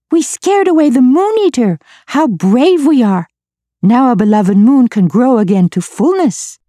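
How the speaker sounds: very high, bright cheering creatures; triumphant creature shout. A narrator's reading. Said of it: "shouted the night creatures".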